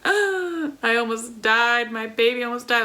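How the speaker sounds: a touch of retold panic, slowed; mock panic. New mom retelling her hospital scare, light mock panic. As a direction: replay the fear lightly. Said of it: "I was just freaking out".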